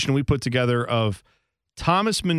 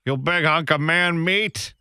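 mock Boston accent; 3 semitones higher than usual. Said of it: "I will take the Boston accent".

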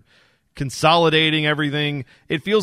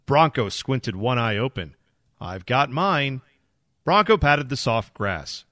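bedtime story reading; slower than usual. Acted. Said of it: "read it as if to kids".

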